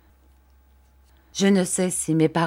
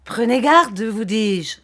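higher, louder sharp warning; urgent warning; 4 semitones higher, 5 dB louder than usual. A narrator's reading. Uriah cautioning Copperfield, in an urgent warning. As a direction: throw the first words out high and loud.

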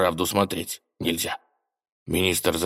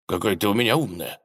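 sighing; faster than usual. Acted. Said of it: "вздохнул царь".

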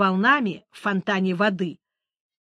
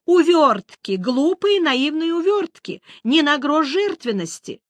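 high, louder indignant squeal; shrieking siren; 7 semitones higher, 4 dB louder than usual. A narrator's reading. Siren shrieking at the witcher's excuses. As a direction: shriek your outrage at the excuses. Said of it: "взвизгнула сирена".

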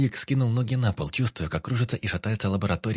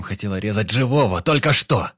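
angry accusation; 7 dB louder than usual. A narrator's reading. Vik accuses the doctor.

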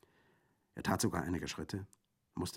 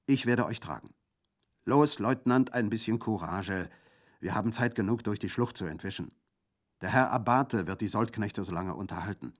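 rallying encouragement; 3 semitones higher, 6 dB louder than usual. Acted. Bandit rallying the lieutenant.

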